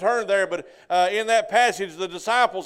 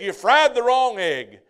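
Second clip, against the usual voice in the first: slow, louder grumble of a grouchy husband; grouchy complaint; 3 semitones higher, 6 dB louder, slower than usual. Retold or imitated. Grouchy husband to his wife, slow grumpy complaint. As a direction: drag out the complaint like a sulky husband.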